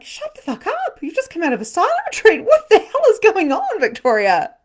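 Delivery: high, loud mock tirade at oneself; exasperated self-scolding. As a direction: tell your own brain off, loud and fast. Scolding own noisy brain, retold.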